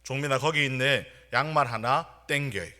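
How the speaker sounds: half-hearted mock yell to a junior; mild retold shout. Senior from 여수 abruptly yells to junior during emergency dispatch, mild retold shout. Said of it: "갑자기 이렇게 소리를 쳤습니다".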